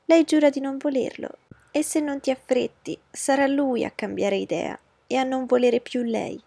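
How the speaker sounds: high, loud, frantic cry to her husband; bursting into the library in a panic; shouting. Acted. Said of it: "gridò". (grida alla moglie del marito, acuta e forte)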